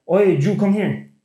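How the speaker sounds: "Jew" for "you", slow imitation of grandma; slow mock-grandma call, "Jew" meaning "you"; grandma's Y-as-J. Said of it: "she can't pronounce the letter Y".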